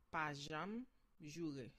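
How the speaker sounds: "pa janm jure" drawn out at half speed; slow teaching pace. Shown as a demonstration. Teacher repeats the Creole phrase slowly for students. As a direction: let each syllable land slowly.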